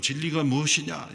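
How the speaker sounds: mild cynical sneer like Pilate; a touch of scornful doubt, lightly voiced. Pilate scoffing at truth, mild cynical tone. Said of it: "이렇게 냉소적으로".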